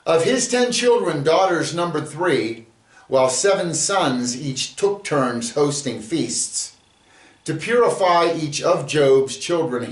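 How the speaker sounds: measured verse reading that leans on the rhymes; poem reading. Acted. Teacher reads his own Job sonnet to the class, measured. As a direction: let the sonnet's beat carry it.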